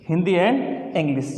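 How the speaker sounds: slow Hindi and English; slow dictation. Shown as a demonstration. Teacher dictating the languages slowly. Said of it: "जैसे हमने लिख दिया".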